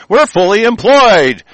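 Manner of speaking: high, slow mock announcement; mocking official claim. Officials touting recalculated unemployment numbers, mocking. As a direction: parrot the claim with derision, drawn out.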